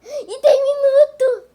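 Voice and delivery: gasping, high, slow panicked laugh-cry; scared horror game streamer. Real, not acted. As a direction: gasp and half-sob in fright.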